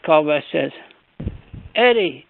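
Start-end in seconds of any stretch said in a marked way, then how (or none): 1.8-2.2 buddy-like call. Retold or imitated. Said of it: "like he's my buddy".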